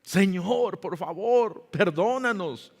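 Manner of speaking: acted plea for forgiveness; pleading prayer. Preacher voices Esdras begging God's pardon, pleading. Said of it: "orando y llorando".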